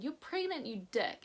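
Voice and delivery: "pregnant" jumps high then drops; tearful exclaim. Retold or imitated. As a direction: blurt it out through happy tears. Friend blurting the news, tearful.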